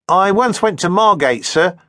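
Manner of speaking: high, eager little voice of a pewter worker; timid tradesman. A narrator's reading. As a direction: play the nervous landsman gaining nerve. Old voiced by narrator.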